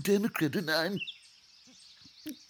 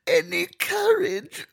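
higher, louder wail into tears; mock sobbing; 9 semitones higher, 6 dB louder than usual. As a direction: collapse into a hammed-up sob. Lion breaks down.

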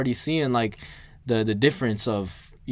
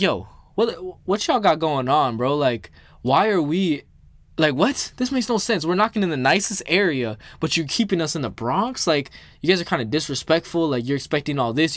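higher, exasperated rant at the boss; indignant complaint; 3 semitones higher than usual. Retold or imitated. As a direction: push the pitch up and vent at the manager. Retold angry call to the manager.

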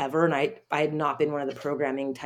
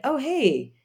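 high-pitched, louder mock hello; retold surprised greeting; 11 semitones higher, 5 dB louder than usual. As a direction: re-enact being caught off guard.

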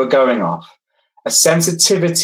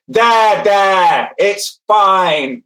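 a raised, brusque there there; harsh there there; 6 semitones higher, much slower than usual. Shown as a demonstration. To the hurt child, the wrong way: a raised brusque there there. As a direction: bark the comfort instead of soothing. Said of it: "So you don't go".

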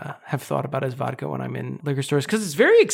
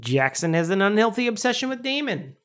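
mock Chicago accent, slightly raised; 3 semitones higher than usual. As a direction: say it as a pretend Chicagoan. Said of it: "we haven't done a single Chicago accent".

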